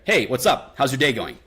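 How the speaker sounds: friendly but talking down from above; positive breaking rapport. Shown as a demonstration. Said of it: "more, like, breaking tonality rapport".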